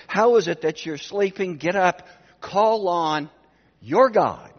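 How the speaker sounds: loud, urgent captain's order; urgent command. Acted. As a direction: rouse the sleeper, demanding. Pagan captain rouses sleeping Jonah.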